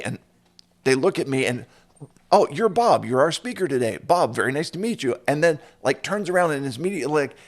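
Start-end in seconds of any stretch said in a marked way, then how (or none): 2.3-5.2 excited greeting. Retold or imitated. Stranger greets him as Bob.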